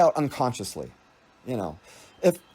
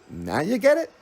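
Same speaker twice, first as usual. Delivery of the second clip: smarty tone; 3 semitones higher than usual. Retold or imitated. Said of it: "it was like a smarty kinda".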